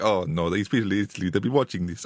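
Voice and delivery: rough attempt at an Italian accent; bad Italian accent. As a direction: put on a half-hearted Italian accent. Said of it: "It was my best Italian".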